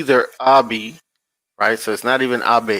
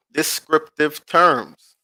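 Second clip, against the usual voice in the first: Descriptive terms said slowly, each word spaced; slow deliberate; 3 semitones higher, slower than usual. Shown as a demonstration. Pointing out the key phrase to viewers, slow and deliberate. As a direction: lay out descriptive terms carefully. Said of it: "repeats the phrase slowly".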